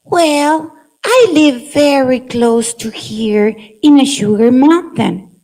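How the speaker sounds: lightly voiced friendly ant explaining; a hint of a cheerful ant character; sugar ant voice. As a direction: offer the news kindly as the sugar ant. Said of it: "make different voices".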